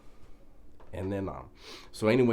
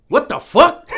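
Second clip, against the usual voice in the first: a much higher, louder yelp that collapses into laughter; laughing shout; 18 dB louder than usual. Retold or imitated. Quoting the shocked cellmate while cracking up. Cellmate finds the prank letter.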